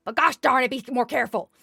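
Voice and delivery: a sudden burst of mild exasperation; exasperated scolding. Acted. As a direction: raise the voice and scold on "gosh darn it". Thistle scolds the reckless farmers.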